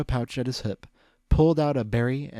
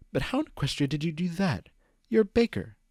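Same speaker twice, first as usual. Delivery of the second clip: disbelieving; 7 semitones higher than usual. A narrator's reading. Disbelieving question.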